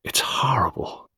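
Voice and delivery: slow, hushed hoarse whisper; a husky, voiceless murmur; deep and hoarse. A narrator's reading. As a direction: whisper it hoarsely, dragging the words. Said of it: "her voice deep and hoarse".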